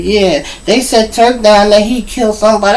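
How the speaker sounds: high-pitched retelling of a panicked mother; imitated panic. Mother phoning about her jailed son, high imitated panic. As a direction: raise the voice into a worried report. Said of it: "and she's panicking".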